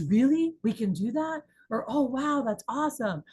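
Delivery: high, eager surprise; excited rep. Retold or imitated. Sales rep hearing a deal, excited. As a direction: rep lighting up at good news. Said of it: "anytime my rep goes".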